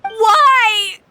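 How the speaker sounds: bitter broken laugh. Acted. Betrayed, breaking into bitter laughter.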